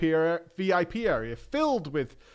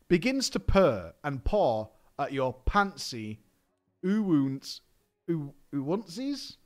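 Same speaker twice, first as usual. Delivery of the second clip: put-on cutesy baby talk; slower than usual. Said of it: "please read this in an uwu voice".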